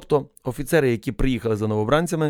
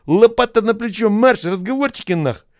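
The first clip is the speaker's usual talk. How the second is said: loud, much higher, slow military command; barked order; 10 semitones higher, 6 dB louder than usual. A narrator's reading. Commander ordering the protesting recruit off, loud barked command. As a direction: drive him away with a drill yell.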